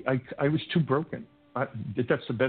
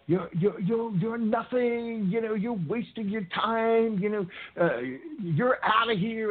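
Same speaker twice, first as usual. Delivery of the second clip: mock berating principal; 9 semitones higher, slower than usual. Principal berating mother behind glass.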